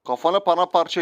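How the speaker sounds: slow menacing gangster line; slow hammed-up threat to an enemy player; mock tough guy threat. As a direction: drawl it out like a film villain.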